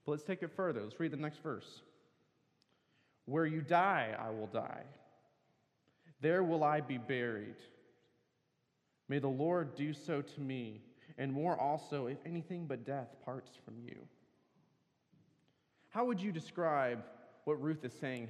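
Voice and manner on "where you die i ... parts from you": a preacher reading from the pulpit, building on the repeated pairs; the pastor reads Ruth's vow to the congregation, solemn reading; scripture reading. Acted. Reads the next verse.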